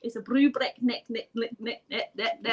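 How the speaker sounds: put-on laughing, botched Scottish accent; failed Scottish attempt. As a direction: fumble a Scottish tongue-twister, repeating the last word.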